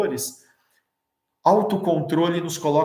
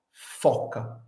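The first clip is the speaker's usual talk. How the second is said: whispered reveal; 4 semitones lower, 5 dB quieter than usual. Shown as a demonstration. Punchline of the syllable trick.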